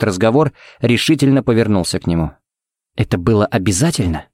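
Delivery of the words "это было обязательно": understated, dry reproach; dry question. Acted. Sheriff to the agent after the arrest, dry reproach. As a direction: ask it with restrained disapproval. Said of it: "спросил он сухо".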